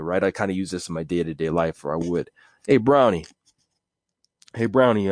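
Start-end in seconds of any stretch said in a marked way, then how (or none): 2.7-5.1 lightly voiced wiseguy hello; mafia greeting. Mobster greeting Brownie, light wiseguy voice. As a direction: greet him like a made man. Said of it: "that's my mafia name".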